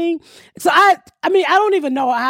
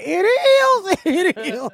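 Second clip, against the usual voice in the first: fake agreement; 5 semitones higher, much slower than usual.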